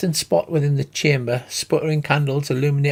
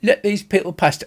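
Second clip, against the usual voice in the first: shouting; 5 semitones higher than usual. Acted. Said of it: "he shouts".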